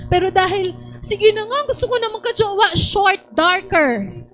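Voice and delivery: single woman grudgingly lowering her standards; mock resignation. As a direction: ham up settling for a lesser boyfriend. Mock settling prayer.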